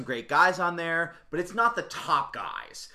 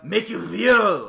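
shady salesman voice; 6 semitones higher, 9 dB louder than usual. Pretend. Mock drug dealer bit.

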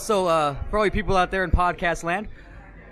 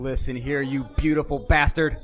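wrestling promo; 3 semitones lower, slower than usual. Pretend. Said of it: "We need the rebuttal".

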